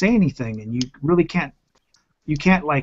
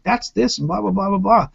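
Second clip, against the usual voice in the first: put-on little kid explaining; 6 semitones higher than usual. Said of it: "the little four-year-old will start saying".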